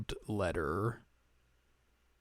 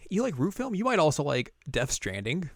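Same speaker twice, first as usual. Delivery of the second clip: 1 mock recommendation voice; 5 semitones higher than usual. Mocking a store recommendation.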